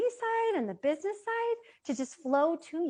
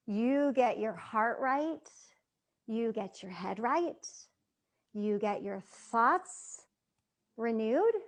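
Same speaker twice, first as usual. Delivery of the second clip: slow reassuring coach; slower than usual. Acted. Coaching audience, hand on heart.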